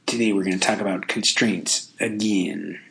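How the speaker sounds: lightly attempted podcast-host impression; a hint of a podcaster's show-opening voice; half-hearted imitation of an admired podcaster; Dan Carlin. Shown as a demonstration. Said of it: "if I could talk like my hero, uh, Dan Carlin".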